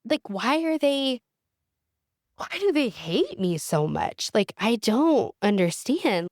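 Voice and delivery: asking herself what she did wrong; distressed self-questioning. Retold or imitated. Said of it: "this shame spiral of".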